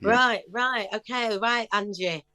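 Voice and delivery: a light bad Northern English accent; half-hearted Northern pianist voice. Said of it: "I'm doing a bad Northern accent".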